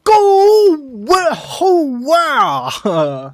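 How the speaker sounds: very high, loud excited squeal; Paisley's shrieking cheer; excited cry. Retold or imitated. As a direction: squeal it out in surprise. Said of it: "Paisley said".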